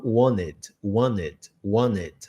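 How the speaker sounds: "wanted" said as "wanned", T dropped; American "wanted", N swallowing the T; wanted without T. Shown as a demonstration. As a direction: slowly model "wanted" with a silent T. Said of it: "a gente não falar o T".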